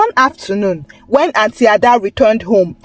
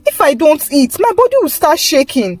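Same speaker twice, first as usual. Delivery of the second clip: higher, urgent pleading; 4 semitones higher than usual. Acted. Chisom pleading with her angry auntie, higher desperate plea. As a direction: beg her auntie to understand. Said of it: "began to plead".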